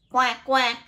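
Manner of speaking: loud, short quacks; punchy double quack; duck quacking. Acted. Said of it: "says the duck".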